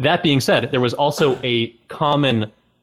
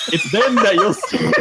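dramatic shout; 7 semitones higher than usual. Pretend. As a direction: build up to a theatrical shout. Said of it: "Percy Prune voice".

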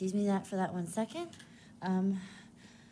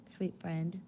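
tearful goodbye; grand tragic wailing; 5 dB quieter than usual. Acted. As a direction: sob the farewell. Dramatic farewell with crying.

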